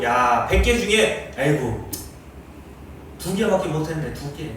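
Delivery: God's voice. Retold or imitated. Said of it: "이렇게 말씀하신다고요".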